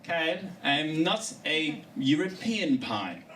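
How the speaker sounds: prim British pie, lightly voiced; mock British indignation. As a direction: correct him like a proud Brit. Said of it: "Or worse".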